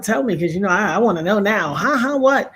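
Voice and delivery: acted impatient demand to know; eager questioning. Host retells pressing Locke for news, eager. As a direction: re-enact being eager for the news.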